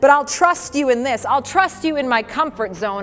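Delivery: earnest spoken prayer, lightly lifted. Acted. Preacher praying to the Spirit about trust, earnest prayer. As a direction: pray it out as a heartfelt plea. Prays to the Spirit over music.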